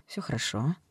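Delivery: hoarse reassurance. Acted. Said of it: "хриплым голосом Эллен".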